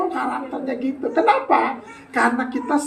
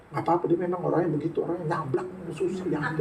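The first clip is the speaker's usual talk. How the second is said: mock excusing aside; 7 semitones lower, 10 dB quieter, faster than usual. Church member excusing a brusque friend.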